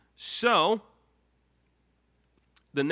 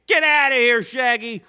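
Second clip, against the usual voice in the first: much louder, higher mock yell; mock shout; 9 semitones higher, 9 dB louder than usual. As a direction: yell Shaggy off the stream. Host chases Shaggy away.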